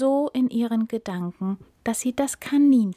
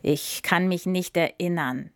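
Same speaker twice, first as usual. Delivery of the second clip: grumpy; 2 semitones lower than usual. Acted. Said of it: "sagte der Elefant mürrisch".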